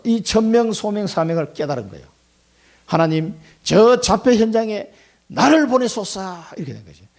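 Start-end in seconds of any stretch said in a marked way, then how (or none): 2.9-6.4 fervent prayer. Acted. Isaiah-style prayer quoted.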